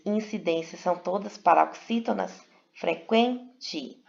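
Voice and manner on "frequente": frequente split as fre-QUEN-te; stress on penultimate syllable. Shown as a demonstration. Teacher proving it is paroxytone, frequente with stressed QUEN. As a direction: lean on QUEN in frequente, then a separate te.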